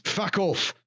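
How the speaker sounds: high barked fuck off; harsh dismissal. Acted. Arl dismissing the elf servant, snapping.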